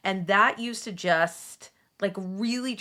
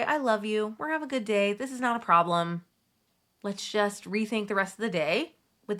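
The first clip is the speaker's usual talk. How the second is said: gentle, calm. Shown as a demonstration. Mom forgot wallet, reassuring herself gently. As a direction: talk yourself down kindly. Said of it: "Okay, so gentle, so calm".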